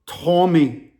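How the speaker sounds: put-on deliberate name in an African accent; African-accented caller, retold; imitated African accent. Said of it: "The African dude's whispering".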